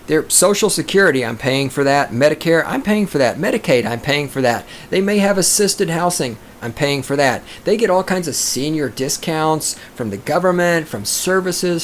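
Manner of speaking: ordinary delivery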